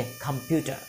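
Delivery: कंप्यूटर with an aspirated kh, khampyutar. Shown as a demonstration. Teacher quizzing class, answering with aspirated kh. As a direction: start कंप्यूटर with a breathy kh. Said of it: "ये तो का से है, तो क्या बोलेंगे".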